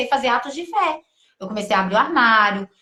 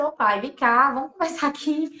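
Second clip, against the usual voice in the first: intimate prayer; 2 semitones higher than usual. Retold or imitated. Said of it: "eu comecei a falar desse jeito".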